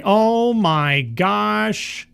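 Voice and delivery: high, very slow, savouring each word; gleeful drawn-out relish. Real, not acted. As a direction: stretch every word out in delight. Gleeful reaction to the headline.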